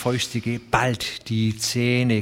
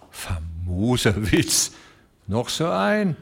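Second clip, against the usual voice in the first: grim growl; slower than usual. Acted. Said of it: "knurrte grimmig".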